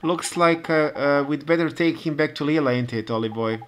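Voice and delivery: cockney local chivvying the lazy cat Timmy, hearty and loud; cockney townsman. Acted. Same cockney character rouses the cat.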